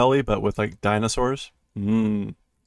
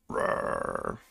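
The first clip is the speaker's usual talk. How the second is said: roar; 10 dB quieter than usual. Acted. Voicing a sound effect.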